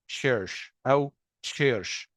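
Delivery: church said with "sh" in place of "ch", slowly; Arab speakers' error. Shown as a demonstration. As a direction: mispronounce church as "shursh". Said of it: "احنا كعرب بنغلط ان احنا احيانا بننطق".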